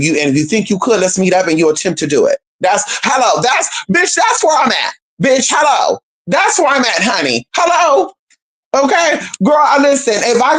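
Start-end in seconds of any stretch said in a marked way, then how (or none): 2.6-8.1 sassy, emphatic hello. Real, not acted.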